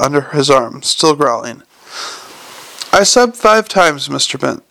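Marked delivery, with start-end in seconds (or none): 2.9-4.6 put-on old lady mildly yelling at the clerk; yelled. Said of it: "Missus Lavish yelled".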